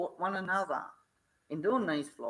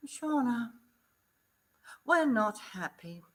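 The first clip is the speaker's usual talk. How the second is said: stern staff voice; 6 semitones higher than usual. Retold or imitated. Staff member confronting her.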